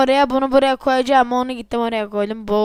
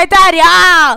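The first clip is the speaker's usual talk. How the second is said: exasperated groan; 5 semitones higher, 10 dB louder, slower than usual. Real, not acted. Frustrated exclamation.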